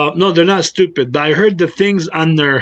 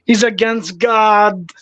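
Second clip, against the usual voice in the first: higher, slow, scandalized accusation; imitating outraged churchgoers; mock horror; 5 semitones higher, slower than usual. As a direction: mimic shocked believers, drawing out each charge. Mocking shocked online Christians.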